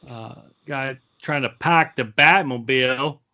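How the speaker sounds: put-on rough stab at a Boston accent; badly faked Boston guy talk. Complaining about Affleck as Batman, shoddy Boston accent. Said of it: "that was my shitty Boston accent".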